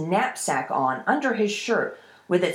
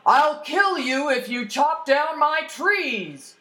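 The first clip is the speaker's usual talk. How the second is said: high, slow, threatening troll yell; 8 semitones higher, slower than usual. Acted. Troll threatens a boy chopping his trees, yelling. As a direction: draw out the threat as an angry troll. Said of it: "came running out of the forest and yelled".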